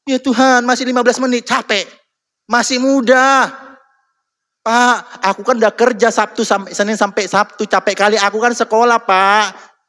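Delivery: put-on young churchgoer whining about being tired at church. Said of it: "Ketika datang ke rumah Tuhan".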